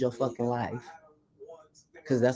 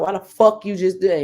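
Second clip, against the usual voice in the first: higher, louder mock outburst; shocked angry yell; 6 semitones higher, 6 dB louder than usual. Woman confronting boyfriend who just hit her, higher and louder. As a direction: demand an answer after the slap. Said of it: "I was like".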